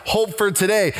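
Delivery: hope for today repeated for emphasis; preacher hammering the theme; emphatic repeat. Shown as a demonstration. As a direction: press the phrase home to the congregation. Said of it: "I can't emphasize it enough".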